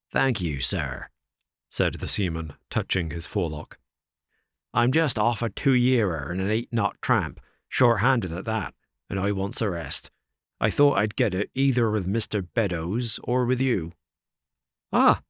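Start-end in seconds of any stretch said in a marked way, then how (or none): 0.1-1.1 lightly voiced old seaman; rough sailor. 4.7-13.9 put-on a sly old seaman, lightly rough; the sailor angling for a rest. Sailor Hudson voiced. 14.9-15.2 sharp higher startled cry. Acted. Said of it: "cried Trevor".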